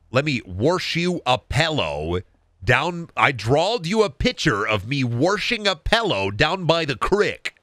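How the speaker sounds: folksy Midwestern, "wash" with an r, "creek" as crick; Midwestern lingo. Shown as a demonstration. Showing off Iowa talk, light Midwestern accent. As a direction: lay on Midwestern vowels: warsh, pellow, crick. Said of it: "That's some real Midwestern lingo".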